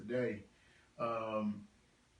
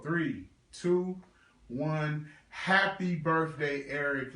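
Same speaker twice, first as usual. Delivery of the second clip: calling out; 3 semitones higher, 5 dB louder, slower than usual. Real, not acted. Countdown calling out on live.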